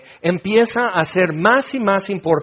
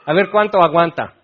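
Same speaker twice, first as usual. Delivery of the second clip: mocking cruel god. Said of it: "Dios no está".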